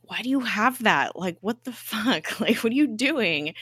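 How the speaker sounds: retold upset. Deke to Daisy, who has the scroll, mock upset. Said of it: "he's really upset".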